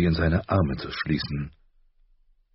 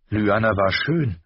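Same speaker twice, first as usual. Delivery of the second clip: put-on a bit higher, wondering young girl; a hint of a young girl's wonder; lightly voiced girl; 5 semitones higher, 3 dB louder than usual. A narrator's reading. Arya marvelling to her father, lightly higher.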